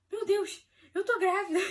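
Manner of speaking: can't stop laughing with happiness; laughing joy. Retold or imitated. To herself on the stairs, laughing with joy. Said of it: "Aí eu".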